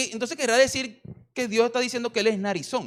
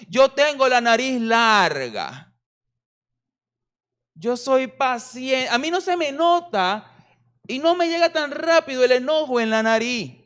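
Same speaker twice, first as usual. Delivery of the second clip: voicing the Lord; 4 semitones higher than usual. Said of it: "le dicen".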